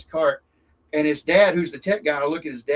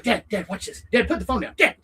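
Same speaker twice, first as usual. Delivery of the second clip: higher, insistent calling to dad; urgent call; 7 semitones higher, 3 dB louder than usual. Retold or imitated. Son calling his dad off the phone, insistent call. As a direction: get dad's attention, pushing. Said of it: "I was like".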